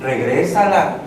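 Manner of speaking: low, measured inner voice; voice of conscience. Acted. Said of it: "Y otra voz que le dice".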